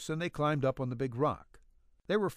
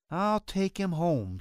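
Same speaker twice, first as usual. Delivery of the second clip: slow, higher whine; whining; 5 semitones higher, slower than usual. A narrator's reading. Eileen whining to her mother about driving him home. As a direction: drag it out like a sulky girl. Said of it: "she whined".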